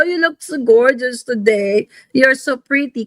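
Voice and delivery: a light mocking flatterer voice. Vlogger mimicking flatterers gushing over a plain face, lightly hammed. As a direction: gush over someone, hamming up the sweet talk. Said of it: "nakita mo yung mga mambobola".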